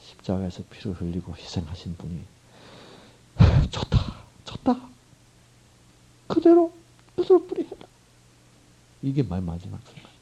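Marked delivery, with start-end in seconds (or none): 3.7-7.9 put-on much higher, pained voice giving up a child; a father's sorrowful surrender; aching heartbreak. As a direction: say it as if it hurts to let go. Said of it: "얼마나 아프겠어요, 마음이".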